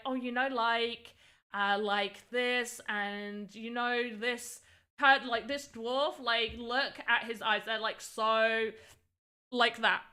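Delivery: heavy like-filled rambling, slowed and dragged at the start; exaggerated like-filled talk. Shown as a demonstration. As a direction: ham up a valley-girl stream of like. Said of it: "I would be going like".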